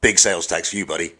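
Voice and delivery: mock American salesman accent, teasing. An American clerk slapping sales tax on a Brit, in a mock American accent. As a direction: sell it like a smug American clerk calling him buddy. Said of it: "your American accent".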